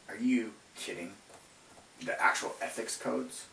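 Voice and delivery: indignant can't-believe-it; incredulous. Real, not acted. Incredulous at the assignment.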